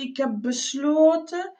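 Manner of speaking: tentative and searching; hesitant answer. Acted. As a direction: stall mid-decision, letting it hang upward. Hesitant answer, left unfinished.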